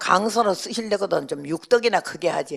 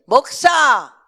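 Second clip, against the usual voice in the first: loud, higher bark of a title; old mother calling; 7 semitones higher, 10 dB louder, much slower than usual. Retold or imitated. Pastor's old mother calling her son by title, loud and high. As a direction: call the pastor son sharply.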